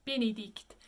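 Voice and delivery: "Benedict" said the French way with tight closed vowels. Shown as a demonstration. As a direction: say "Benedict" in French, closed A sounds, not quite E. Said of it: "You can hear they're not quite E".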